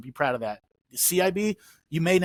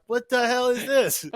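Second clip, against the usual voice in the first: retold disbelief; 8 semitones higher, 3 dB louder, slower than usual. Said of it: "So I'm like".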